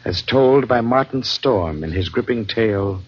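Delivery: measured radio announcer read; announcer introduction. Acted. Announcer introducing the evening's tale, measured. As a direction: present tonight's tale with gravity.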